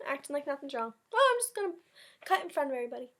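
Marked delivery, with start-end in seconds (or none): 1.1-3.1 high, sing-song cheeky voice; cheeky boy. Acted. David cutting in front at lunch, high cheeky voice. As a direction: play the innocent line-cutter.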